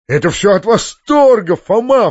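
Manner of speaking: high and loud excited exclamation; delighted cry. A narrator's reading. The uncle exclaiming to Foma in delight. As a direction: cry it out, overcome with joy. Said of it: "вскричал дядя".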